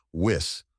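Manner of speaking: Wis said alone, short i as in whisk; first syllable alone. Shown as a demonstration. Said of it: "like whisk".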